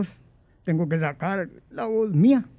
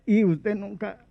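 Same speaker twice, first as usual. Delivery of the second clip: a lightly raised, formal strained voice; imitating Guillén; 3 semitones higher than usual. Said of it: "por qué mi voz está así". (voz aguda de Guillén imitada, ligera)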